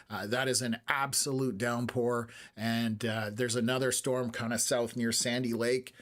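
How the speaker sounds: slightly hoarse, worn-out voice. Real, not acted. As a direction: voice going hoarse. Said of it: "losing my voice a little".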